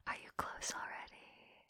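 soft taunting whisper. Acted. Teasing her partner, whispering the question. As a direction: breathe the question into his ear. Asking partner, contrast with next.

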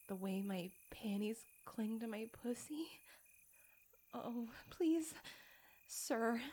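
soft whispered plea; shocked whisper. Acted.

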